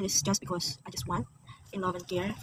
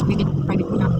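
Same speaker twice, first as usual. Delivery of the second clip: retold firm request; 11 dB louder than usual. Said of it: "sabi ko sa kanya".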